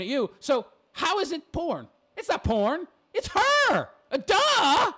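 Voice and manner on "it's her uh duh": mocking duh. Real, not acted. Mocking the obvious answer.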